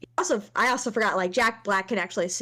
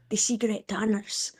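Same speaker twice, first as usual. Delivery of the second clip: slow quote in a put-on Mexican accent; mock Mexican accent; 3 dB quieter, slower than usual. Given full rein by co-host, slow Mexican accent. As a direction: stretch it out with a Mexican film accent. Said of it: "to do the accent".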